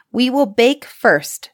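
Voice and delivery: a witch telling Gretel the baking plan; scheming witch. A narrator's reading. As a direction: lay out the plan with false sweetness. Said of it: "said the old woman".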